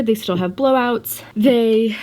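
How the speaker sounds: breathless, winded talking; out of breath. Real, not acted. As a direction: talk while short of breath. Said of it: "sorry, I'm so out of breath".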